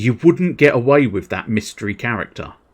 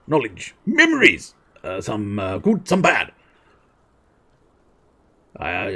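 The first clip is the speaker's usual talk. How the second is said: falter, then swell on the key words; faltering king. Acted. Voices the hesitant old king.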